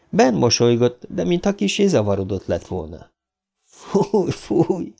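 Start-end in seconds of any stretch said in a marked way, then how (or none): 3.6-4.9 high, light giggly boo; a small high jeer with a hint of a giggle. A narrator's reading. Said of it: "kuncogott Ben". (kuncogva, magas hangon)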